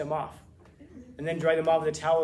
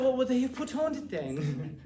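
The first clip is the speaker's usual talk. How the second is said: bewildered slow question; 8 semitones higher, slower than usual. Retold or imitated. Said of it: "Well, I said".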